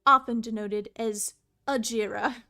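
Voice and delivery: grand storybook reading; story narration. Acted. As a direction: narrate the history solemnly. Reading game lore aloud.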